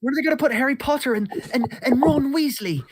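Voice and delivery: excited fanboy. Pretend. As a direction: gush like an overexcited kid. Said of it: "you were doing this exact bit".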